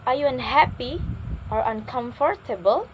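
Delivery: "unhappy" rising, then "uncomfortable" offered; limited-choice question intonation. Shown as a demonstration. Teacher repeating with another example, rising on "unhappy". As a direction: lift each of the two choices. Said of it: "I repeat in another example".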